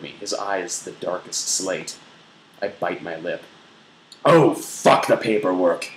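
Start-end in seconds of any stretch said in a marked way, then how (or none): 4.3-5.9 growls. A narrator's reading. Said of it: "he growls".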